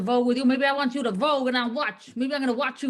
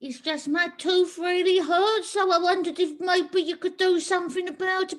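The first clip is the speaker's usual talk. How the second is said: patient in pain; 5 semitones higher than usual. Acted. Patient begging the dentist about a sore tooth, higher pleading. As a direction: plead gently through toothache. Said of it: "please, Missus Dent".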